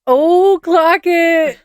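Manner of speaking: high, loud sassy exclaim. Retold or imitated. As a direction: toss it off with attitude. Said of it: "he's like".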